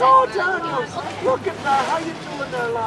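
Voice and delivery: lightly voiced Irish grandmother; a touch of nosy Irish granny; Grandma Rose. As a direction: greet him with a hint of a brogue. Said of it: "When Grandma Rose comes up to me and says".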